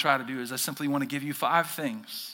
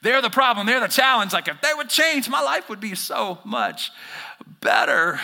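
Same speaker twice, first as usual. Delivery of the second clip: higher, louder, pointing the finger; mock blaming; 4 semitones higher, 4 dB louder than usual. Pastor voicing a listener blaming others, mock. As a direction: insist they're the problem. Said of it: "you would, like, say".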